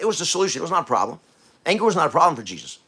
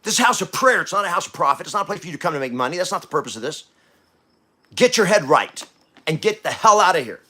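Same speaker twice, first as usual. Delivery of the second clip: raised-voice rebuke of money changers; Jesus's angry rebuke. Retold or imitated. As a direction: drive them out of the temple. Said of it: "And he says".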